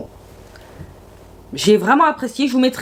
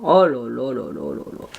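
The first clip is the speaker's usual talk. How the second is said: swooning oh la la; 11 semitones lower, 4 dB quieter than usual. Real, not acted. Swooning over a red palette.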